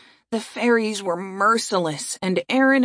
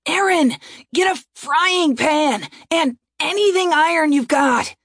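high, urgent call for help; raised, pressing voice; urgent command; 9 semitones higher, 3 dB louder than usual. Acted. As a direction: call out orders mid-attack. Urgent order during the attack.

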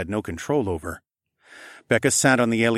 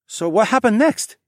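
higher, eager voice breaking a silence; eager young man; 13 semitones higher, 6 dB louder than usual. Acted. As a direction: jump in, curious. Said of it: "Tay asked, and broke the tense silence".

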